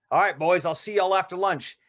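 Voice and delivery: a lightly voiced hyped-up guru wrapping the session; Tom Cruise seminar host. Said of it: "Cruise leads this crazy seminar".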